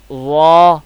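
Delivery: وا thick and heavy, from the back of the mouth; full, heavy letter. Shown as a demonstration. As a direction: fill out وا with a rounded, heavy sound. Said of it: "پر یعنی کہ موٹا مستعلیہ کا مخرج ادا ہوگا".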